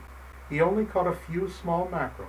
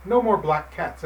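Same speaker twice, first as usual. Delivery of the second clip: louder angry shooing; old fisherman chasing off the kitten; 4 semitones higher, 4 dB louder than usual. Acted. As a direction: shoo the kitten away angrily. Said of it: "angrily said the old fisherman".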